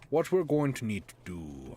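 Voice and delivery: a light put-on Russian accent like Sean Connery's sub captain; half-hearted Russian accent, Hunt for Red October style. Streamer playing Factorio, slipping into a mild Russian accent. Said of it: "I don't know why I'm talking like".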